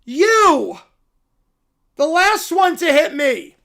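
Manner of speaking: high, loud, slow cartoon bear voice; a cub thrilled by the news; excited little bear. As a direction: squeal it like an overjoyed cub. Bear calling driver.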